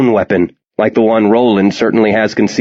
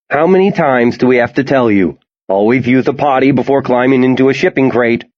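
mother voice; 3 semitones higher than usual. Acted. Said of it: "putting on his best mother voice".

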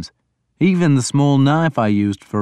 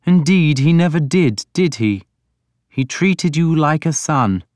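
lightly voiced lord, higher in pitch; pressing interrogator; 6 semitones higher than usual. A narrator's reading. Alfred presses his questioning.

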